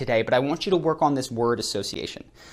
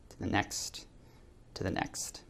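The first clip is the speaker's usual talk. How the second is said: trailing whisper; 6 semitones lower, 15 dB quieter than usual. Real, not acted. Fading guidance into exercise pause.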